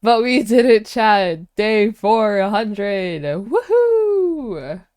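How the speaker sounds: loud celebration rising to a whoop; triumphant cheer. Real, not acted. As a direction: cheer and build to a high whoop. Celebrating the streak with chat.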